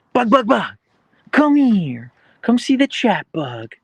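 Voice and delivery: loud, very high pet call; calling the dog. Real, not acted. Streamer calls the dog to come see chat, high and loud.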